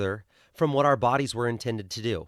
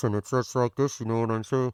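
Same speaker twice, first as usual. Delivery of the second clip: a little muffled, as if mouth-covered; 2 semitones lower than usual. A speaker shows how people sound talking through a mask: a little muffled. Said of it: "it's a little muffled".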